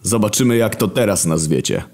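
wounded divine authority; God. Acted. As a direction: speak down from heaven, aggrieved. God threatens Michał.

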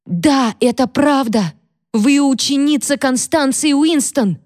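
high, slow, insistent accusation; hysterical girl. Acted. Catherine, hysterical, names Mary the pupil of Constance in a high voice. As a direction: drive the charge home.

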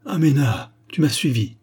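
put-on startled young man crying out. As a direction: gasp out his name in alarm. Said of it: "en tressaillant s'écria".

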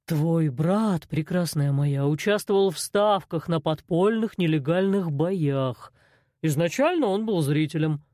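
slow, unhurried menacing boss; lightly voiced cold boss; calm crime boss. A narrator's reading. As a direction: explain the fights like it's business. Arsen voiced by narrator.

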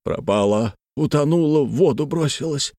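a touch of breathless panic; gasping. A narrator's reading. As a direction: report a disaster while short of breath. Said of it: "ответил Иван Ильич задыхавшимся голосом".

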